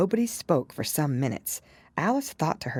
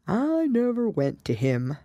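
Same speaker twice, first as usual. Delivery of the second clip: sighing; 7 semitones higher than usual. A narrator's reading. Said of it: "said with a sigh".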